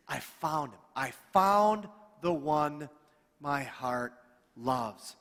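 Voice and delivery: slow, tender relief savouring each word; relieved joy. Acted. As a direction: linger on found like she finally can breathe. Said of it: "that's how she's feeling inside".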